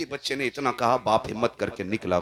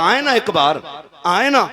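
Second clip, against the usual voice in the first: higher, aching cry of longing; anguished plea; 10 semitones higher, 10 dB louder than usual. A narrator's reading. Dying child begs his beloved to come, anguished plea. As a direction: plead in anguish, reaching up. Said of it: "जब बच्चे ने तड़प के ये बात कही ना".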